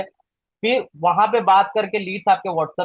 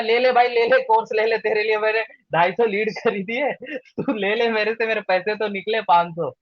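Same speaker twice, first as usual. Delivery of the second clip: imitating a pleading, over-eager seller; mock pestering. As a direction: badger the buyer in a half-hearted mock plea. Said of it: "किसी के पीछे नहीं पड़ना है". (पीछे पड़कर मिन्नत करने की नकल)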